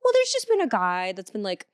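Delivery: offhand, lilting mock-casual delivery; Maria's casual warning. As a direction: lightly imitate a sweet little lady. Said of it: "And she said it like that".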